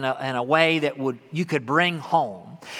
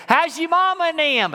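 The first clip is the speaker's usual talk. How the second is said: high country greeting; 11 semitones higher than usual. Acted. Blind man answering the uncle, high hollered greeting.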